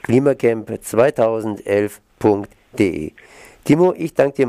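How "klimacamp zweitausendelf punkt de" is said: slow, deliberate read-back; slow dictation. Real, not acted. Host repeats the homepage for listeners, slow dictation. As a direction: repeat the address slowly for note-takers.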